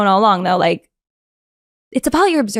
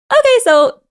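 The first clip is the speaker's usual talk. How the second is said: higher, louder official rabbi voice; imitating rabbis; 10 semitones higher, 4 dB louder than usual. Rabbis open the questioning, mock official. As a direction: play the panel getting down to business. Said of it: "And they're just like".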